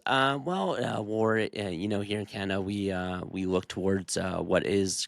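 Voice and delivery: low, rambling evasive politician voice; lightly voiced waffling leader; mock politician. Mimicking a politician asked about the war. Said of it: "He goes".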